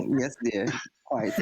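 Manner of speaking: breaking into giggles on yes; cracking up mid-line; laughing through the line. Acted.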